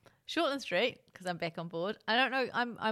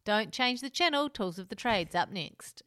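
slow, punchy channel promo read; TV announcer voice; 3 semitones higher, 3 dB louder, slower than usual. Pretend. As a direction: sell the next show like a TV announcer.

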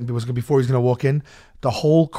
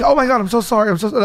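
panicked apology; 7 semitones higher, much faster than usual. Retold or imitated. Heckler apologizing to the angry wrestler, panicked. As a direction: beg forgiveness in a panic. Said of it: "So I was like".

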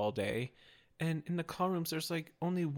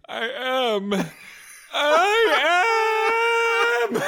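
high, loud squeal of delight, laughing; breathless laughing yes; giddy cry; 9 dB louder, much slower than usual. Retold or imitated. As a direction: squeal it out like a thrilled fan. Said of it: "I was like".

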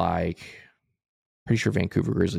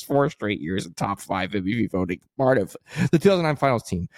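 running out of air, slowing at the end; all in one breath. Real, not acted. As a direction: squeeze the last items out on one breath. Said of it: "I'm gonna read these in one breath".

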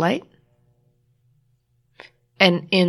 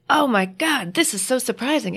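mock surprise; 6 semitones higher than usual. Sarcastic quote, then "It wasn't.

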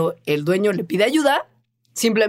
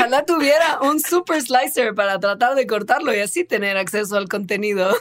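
over eager infomercial; 3 semitones higher than usual. Retold or imitated. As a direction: sell it like a TV ad. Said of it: "después de todo este infomercial".

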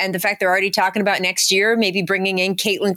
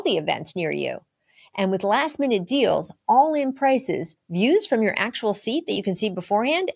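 ad read; 3 dB quieter than usual. Acted. Host reads sponsor ad.

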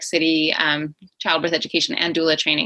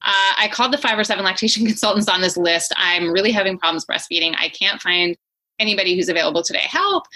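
imitating a mildly panicked new parent; mildly freaked-out caller; 2 semitones higher than usual. New parent calling the company for breastfeeding help, mildly freaking out. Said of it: "kind of freaking out, going".

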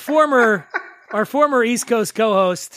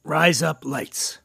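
slow, lower-pitched "razor blades" in Australian; accidental Australian accent; 4 semitones lower, much slower than usual. Shown as a demonstration. Dan repeating the phrase on request, accidental Australian accent. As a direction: say "Rise up lights" slowly to sound Australian. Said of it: "razor blades with an Australian accent".

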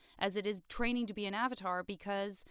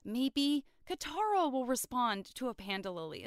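higher, eager scheming voice; voicing Aang's hopeful scheme, higher; 5 semitones higher than usual. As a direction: play it like a hopeful kid with a plan. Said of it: "It's like".

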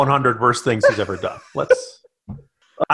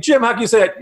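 mock critic; 5 semitones higher, faster than usual. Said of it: "people are saying".

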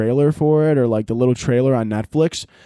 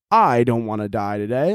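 mock monotone; 5 semitones lower than usual. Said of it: "the monotone voice is just like".

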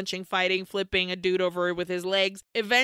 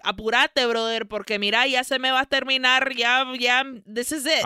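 loud, hurried, desperate; urgent plea; 4 semitones higher, 5 dB louder than usual. Retold or imitated. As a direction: push them to hurry up. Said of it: "she's like".

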